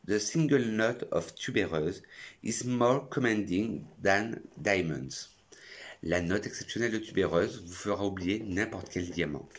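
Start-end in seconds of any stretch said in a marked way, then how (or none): 0.1-5.3 slow English with a French accent. Shown as a demonstration. Reading a perfume slogan to viewers, slow French-accented English. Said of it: "avec mon superbe accent anglais".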